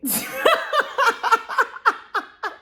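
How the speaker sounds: high embarrassed giggle; nervous high laughter. Real, not acted. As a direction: laugh off the interruption. Embarrassed after mom's call.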